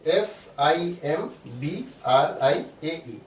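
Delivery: very slow letter-by-letter spelling. Shown as a demonstration. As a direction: dictate each letter separately, with gaps between.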